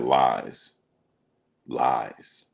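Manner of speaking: low, drawn-out dismissive lies; diva brush-off. Retold or imitated. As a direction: imitate him waving it off like a diva. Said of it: "What is he, a diva?".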